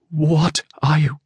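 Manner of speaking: slow, high, halting question; frightened stammer. A narrator's reading. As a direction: draw it out high, faltering with fright. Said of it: "the whisper broke into a stammer".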